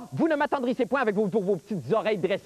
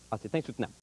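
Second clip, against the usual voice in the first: mock suffering; 11 semitones lower, 8 dB quieter, much faster than usual. Fake hunger strike suffering.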